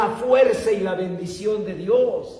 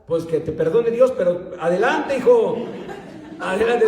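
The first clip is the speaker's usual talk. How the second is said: laughing blessing; 3 semitones higher than usual. Retold or imitated. The father laughing as he blesses his son's choice of philosophy. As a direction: give your son a good-natured laughing go-ahead.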